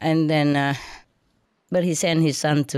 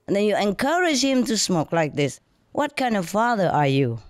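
retold scolding lecture; 3 semitones higher than usual. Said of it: "I continue my lecture".

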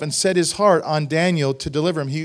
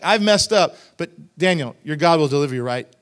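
loud confession sliding into a questioning plea; asking, unsure; 7 dB louder than usual. Retold or imitated. Guilty king asking Daniel for reassurance, unsure and questioning. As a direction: own up, then seek reassurance. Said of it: "He, he's kinda asking, like, a question".

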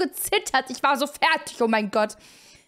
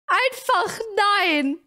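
drawn-out no; 3 semitones higher, much slower than usual. Real, not acted.

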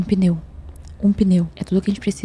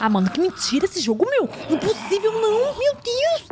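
much higher, incredulous cry; can't believe this game; exasperated disbelief. Real, not acted. Game frustration outburst.

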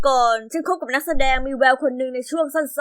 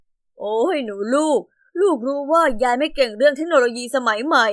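grandma voice; 3 semitones lower than usual. Acted. Narrator voices grandma on phone.

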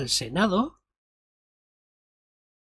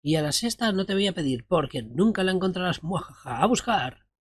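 mustache twirling villain; 3 semitones higher than usual. Acted. Voicing a gloating quest giver.

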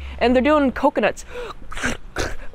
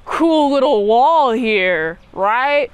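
mocking French guard; 3 dB louder than usual. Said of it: "You got one French dude be like".

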